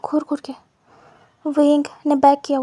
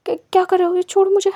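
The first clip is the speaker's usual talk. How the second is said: higher, rising panic; panicked plea; 5 semitones higher, faster than usual. Acted. Wang in pain begs Wing to release him, panicked. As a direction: cry out to be let go.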